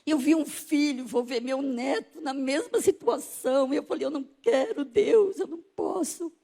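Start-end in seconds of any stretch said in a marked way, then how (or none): 0.1-3.7 anguished plea to God; tearful protest. Retold or imitated. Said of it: "Aí eu chorei e falei". 4.1-6.3 anguished cry to God; refuse, close to crying; tearful refusal. Retold or imitated. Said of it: "E chorei".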